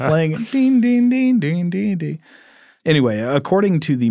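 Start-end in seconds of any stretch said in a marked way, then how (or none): 0.5-2.2 high sung ding-ding falling away; sung harpsichord imitation. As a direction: sing it like a harpsichord tune.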